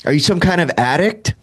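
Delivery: half-pleading, half-scolding father; exasperated dad. Retold or imitated.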